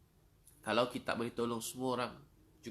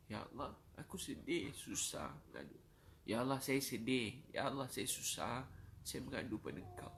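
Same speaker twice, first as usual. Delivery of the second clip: sorrowful supplication; 3 dB quieter than usual. Shown as a demonstration. Preacher showing listeners how to pray when troubled, subdued sorrowful plea. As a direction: let the plea sink into quiet sorrow. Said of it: "Kalau tuan-puan rasa sedih, susah, cakap".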